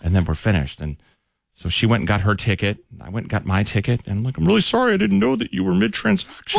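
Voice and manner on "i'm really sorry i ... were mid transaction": apologetic. Retold or imitated. Apologizing in a high voice.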